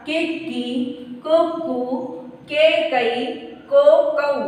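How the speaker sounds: slow, syllable by syllable drill; barakhadi recitation. Shown as a demonstration. Teacher rereading the syllables for students, measured. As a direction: read each syllable out for the class again. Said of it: "तो फिर से पढ़ लेते हैं".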